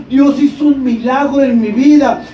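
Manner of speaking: acted-out, amazed proclamation; excited testimony. Healed young man tells his pastor of the miracle, excited. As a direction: retell it as an awed witness.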